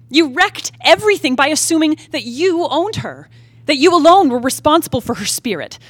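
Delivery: furious outburst at the dead man; angry tirade. Acted. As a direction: rail at him with rising fury. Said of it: "I've never spoken like this".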